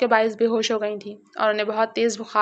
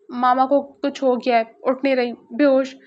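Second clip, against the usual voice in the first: flustered panic; 2 semitones higher than usual. Acted. Sufyan tells his brother their mother has fainted, mildly panicked. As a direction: blurt it out, lightly panicked. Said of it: "سفیان کے بوکھلائے ہوئے انداز میں کہنے".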